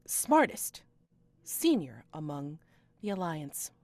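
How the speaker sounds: high, loud piping announcement; piping attendant. Acted. Attendant announcing her lady's name, high and loud. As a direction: pipe up like an eager servant. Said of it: "the last one will pipe up".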